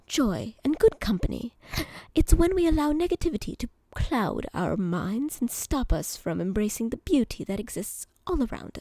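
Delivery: a kindly bartender with a lightly put-on British accent; mock British barman dispensing wisdom, ending in a hush; bad British accent. Streamer voices bot Jim answering a question, mock British accent. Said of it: "Jim is British".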